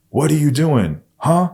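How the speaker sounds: high, loud shout across the yard; loudest call across yard. Retold or imitated. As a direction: yell it to dad who isn't answering. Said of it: "yelled across the yard".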